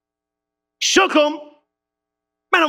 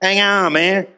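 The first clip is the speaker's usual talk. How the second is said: cool laid-back Jesus; 4 semitones lower, slower than usual. Retold or imitated. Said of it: "Jesus slick. He cool".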